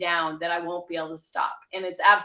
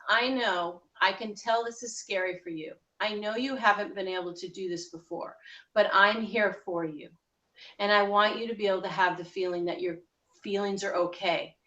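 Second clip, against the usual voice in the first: gentle inner reassurance. Shown as a demonstration. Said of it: "You can say to the emotional self".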